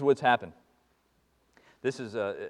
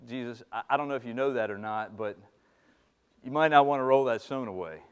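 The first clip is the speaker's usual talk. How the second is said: mock Martha; 2 semitones lower, 5 dB louder than usual. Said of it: "Martha, bless her heart".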